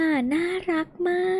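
high, soft gushing over something cute. Real, not acted. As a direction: squeal softly at how cute it is. (เสียงสูงเบาๆ ชื่นชมว่าน่ารัก)

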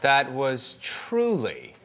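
mildly exasperated scolding; lightly voiced Jesus losing patience; a hint of scornful Jesus. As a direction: tell them off as a disgusted judge. Judge playing Jesus berating.

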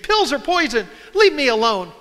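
mild mock yell of protest; retold scream. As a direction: echo the son's scream without going all out. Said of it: "and he screamed".

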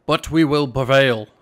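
loud put-on rasp, half joking; mock raspy voice. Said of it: "I'll just talk like this".

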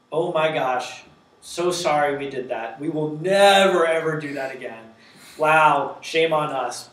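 overly sorry customer service voice with a loud never; apologetic system voice. Retold or imitated. App apologising to a user after a thumbs down, lightly voiced over-apology. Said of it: "it says something to the effect of".

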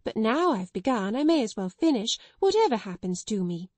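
timid sister finally defying headmistress, building; reckless courage. Acted. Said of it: "with a kind of reckless courage".

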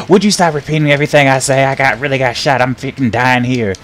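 loud, high, fast complaint; shouting at the screen to quit it; I'm dying, stop it; exasperated yell. Real, not acted. Scolding game repeating him.

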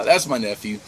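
ordinary talk, nothing marked

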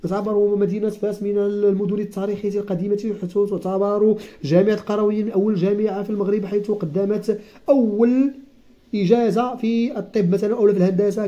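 formal historian. Pretend. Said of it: "وكيبقى يقول لك".

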